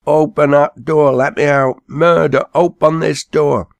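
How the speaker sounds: high, loud shout for help; desperate shout. A narrator's reading. Ben trapped in the hearse, high desperate shout. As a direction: yell from inside a locked hearse. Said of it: "kicked at the door and cried out".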